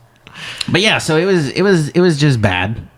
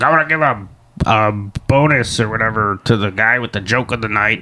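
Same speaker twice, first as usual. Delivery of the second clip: mock announcer voice; 2 semitones lower, 3 dB quieter than usual. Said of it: "you're like doing this kind of voice".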